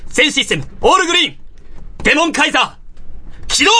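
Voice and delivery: heroic launch call building high; pumped heroic transformation shout. Acted. S0 reads launch sequence.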